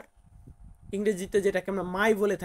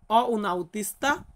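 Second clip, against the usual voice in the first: "অ উন আউতিস্তা" again, a little slower than usual; slow repeat; slower than usual. Shown as a demonstration. Teacher repeating the Italian sentence for students. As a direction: repeat "অ উন আউতিস্তা" at a steady learner's pace. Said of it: "আমাকে বলতে হবে".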